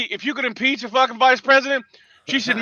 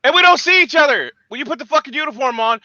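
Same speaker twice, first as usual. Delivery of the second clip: angry yell; 4 semitones higher, faster than usual. Real, not acted. Angry rant.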